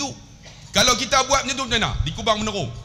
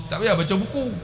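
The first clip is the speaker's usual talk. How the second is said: ordinary talk, nothing marked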